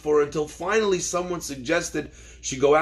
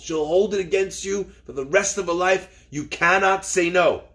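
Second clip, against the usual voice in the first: insistent, raised retold warning; emphatic warning; 3 semitones higher than usual. Elder rabbi warning a rabbi about the girl, emphatic. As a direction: drive the prohibition home firmly.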